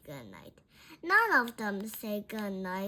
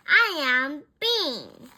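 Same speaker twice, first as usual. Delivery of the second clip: loud, emphatic announcement; much louder declaration; shout; 3 semitones higher, 12 dB louder than usual. A narrator's reading. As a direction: shout out who you are. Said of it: "Bean shouts".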